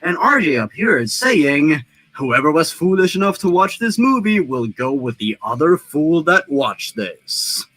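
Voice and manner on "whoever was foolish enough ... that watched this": lightly voiced tough action hero; understated action-hero menace; Bruce Willis impression. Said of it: "That's my best Bruce Willis impression".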